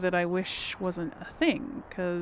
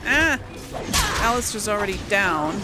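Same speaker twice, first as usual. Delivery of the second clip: alarmed cry; 5 dB louder than usual. Real, not acted. Party member falls in fight.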